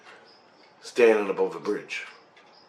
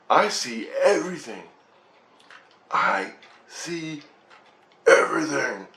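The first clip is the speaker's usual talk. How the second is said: higher pitch, amazed and spaced out; acted awe; 4 semitones higher than usual. Dreamer tells family of his vision, high-pitched amazement. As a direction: marvel at it in a raised voice.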